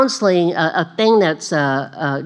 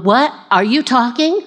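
higher-pitched mock disbelief; astonished Balaam; 6 semitones higher than usual. Balaam reacting to his talking donkey, astonished. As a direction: act out Balaam taken aback. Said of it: "Balaam going".

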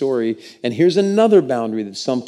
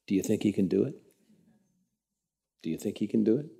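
gentle question; 4 semitones lower, 9 dB quieter, faster than usual. Shown as a demonstration. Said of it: "ask this question to one another".

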